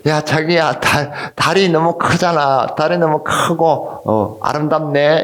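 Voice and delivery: lightly voiced sentimental girlfriend, drawn out; a hint of dreamy romantic wonder. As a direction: slowly marvel to a sweetheart, lightly acted. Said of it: "아가씨가 아주 감성적이라서".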